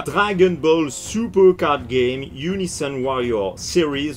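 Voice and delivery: slow, showy English accent. Shown as a demonstration. Card collector showing off the booster's title, showy English accent. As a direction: read the title slowly in your best English accent. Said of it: "vous avez vu l'accent anglais magnifique".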